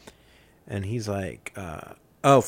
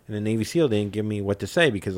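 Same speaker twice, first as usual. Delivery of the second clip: normal talking voice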